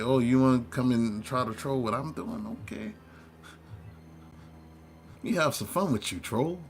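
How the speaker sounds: a touch of sarcastic sweetness; mocking the troll. To an online troll, lightly mocking taunt. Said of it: "I used to read them for filth".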